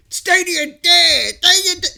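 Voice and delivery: stretched, mocking crowd cry; mocking naysayers. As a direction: imitate gloating haters, drawing out the last word. Mimicking console fans' gloating chant.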